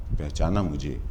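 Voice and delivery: low, soft poetic aside with pauses; hushed refrain. Acted. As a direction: drop right down and let each phrase hang. Soft refrain of recited poem.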